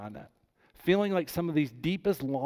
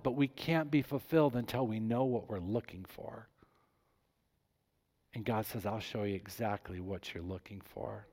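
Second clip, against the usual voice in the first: hushed; 2 semitones lower, 5 dB quieter than usual. Real, not acted. Pastor confiding God's promise to the church, hushed. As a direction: drop to a near whisper, much softer. Hushed turn after the climax.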